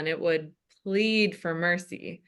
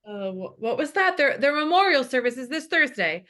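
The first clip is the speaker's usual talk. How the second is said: realizing aside; 5 semitones higher than usual. Acted. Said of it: "Realizing they're dead and aside".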